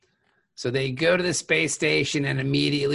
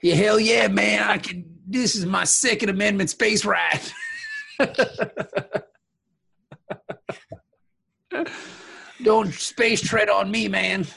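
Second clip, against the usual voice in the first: gun-nut shout; 5 semitones higher than usual. Pretend. Mock gun-nut bravado.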